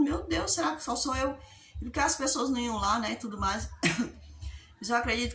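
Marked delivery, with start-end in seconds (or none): 0.0-1.4 higher, anxious wondering to herself; the nervous girl asking herself in alarm; anxious inner thought. Retold or imitated. Teen singer on stage, worried thought, higher pitch. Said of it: "Eu ficava imaginando".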